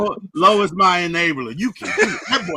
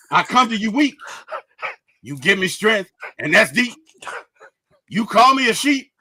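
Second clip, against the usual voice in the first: impression of a rapper's prayer. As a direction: perform it like a concert prayer. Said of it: "could we get the growl one more time".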